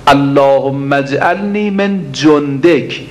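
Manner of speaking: slow, drawn-out Arabic supplication, each word weighed; slow prayer recitation. Acted. Preacher reciting the supplication to the congregation, slow and drawn out. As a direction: intone the prayer slowly like a preacher.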